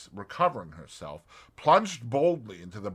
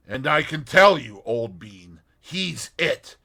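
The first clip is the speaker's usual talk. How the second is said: a hint of a pleased young chap, a bit louder; lightly voiced young man; 4 semitones higher, 9 dB louder than usual. A narrator's reading. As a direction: confide it proudly. Tommy voiced in audiobook.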